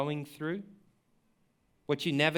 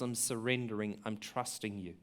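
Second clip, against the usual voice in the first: soft surrender; 8 semitones lower, 12 dB quieter than usual. Acted. Jesus' surrender voiced softly.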